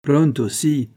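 jaunty little Italian hello; playful tone. A narrator's reading. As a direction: toss it off lightly, teasing. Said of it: "fais-je d'un ton badin".

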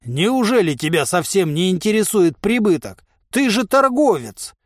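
pompous indignation; indignant. A narrator's reading. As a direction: protest in offended disbelief. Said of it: "возмутился гигант".

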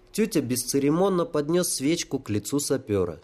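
ordinary delivery, nothing marked

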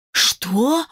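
narrator's mild hiss. A narrator's reading. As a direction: hiss it out in disbelief. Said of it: "прошипела я".

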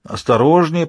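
high, cheeky villain's warning; mocking villain, pitched high; high and insolent. A narrator's reading. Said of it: "Его голос был высоким и дерзким".

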